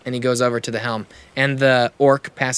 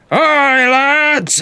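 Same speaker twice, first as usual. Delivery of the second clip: much higher, louder bellow across the deck; 13 semitones higher, 7 dB louder than usual. Acted. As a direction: bellow the order to the whole crew. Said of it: "he kinda bellows super loud".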